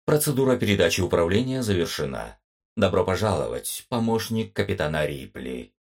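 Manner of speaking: бубнящий металлический голос компьютера; бесстрастный голос машины, чуть быстрее; booming metallic robot. Acted. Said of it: "пробубнил обезличенный металлический голос компьютера". (обезличенный металлический голос компьютера)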